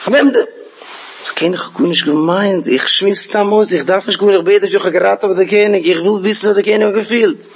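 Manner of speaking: acted royal anger; enraged king. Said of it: "mit Kas gebrannt".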